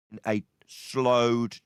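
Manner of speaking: deep, very slow mocking drawl. Shown as a demonstration. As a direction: drag every word out low and slow. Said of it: "I'll summarize again slower".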